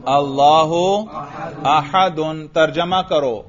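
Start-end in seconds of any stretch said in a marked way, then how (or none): 0.1-2.5 अल्लाहु अहदुन read smoothly with full case endings; Arabic recitation: اللهُ أحدٌ; fluent Arabic reading. Shown as a demonstration. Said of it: "एराब समेत इसको रवानी से पढ़ो".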